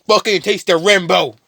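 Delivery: high, loud mocking cry; sadistic taunt. Connor mocking the woman he drowns, gleeful taunting yell. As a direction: crow it like a cruel joke.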